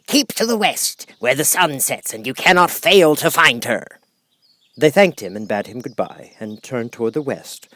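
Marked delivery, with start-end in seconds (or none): 0.1-3.8 higher, earnest guiding voice; a gently voiced old guide; storyteller's old man. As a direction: point them west like a kindly elder. A figure gives directions.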